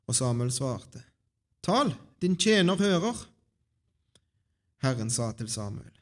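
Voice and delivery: measured Bible storytelling with pauses; scripture reading. A narrator's reading. Reader shares Samuel's story with the congregation, scripture reading. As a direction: read the chapter out clearly to the congregation. Reads a Bible chapter aloud.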